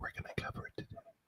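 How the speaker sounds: very quiet, breathy, barely voiced hushed whisper. Joking about imitating Biden while announcing the topic: whispering like Biden. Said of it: "I'll be like Biden and I'll whisper".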